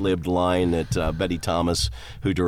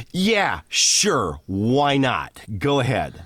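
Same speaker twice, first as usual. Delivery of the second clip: higher, offhand brush-off; flip permission; 3 semitones higher, much slower than usual. Retold or imitated. Imitating the director casually letting him try, flip. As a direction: toss it off like you don't care. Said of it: "really flip like that".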